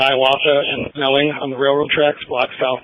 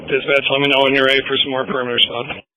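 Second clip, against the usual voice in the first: police radio. Real, not acted. Whole scanner recording is radio chatter.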